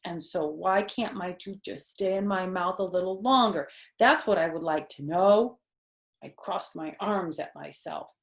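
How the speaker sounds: put-on lively read-aloud voice for kids; animated children's book reading; story narration. A narrator's reading. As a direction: read it like storytime, voicing the characters. Reads Junie B. story aloud.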